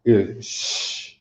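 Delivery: "sh" as a long hushed hiss with no voice; soft sh sound. Shown as a demonstration. Teacher demonstrates the soft sha sound to the class, hushed. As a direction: breathe out a soft "sh". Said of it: "The soft sound of a sha".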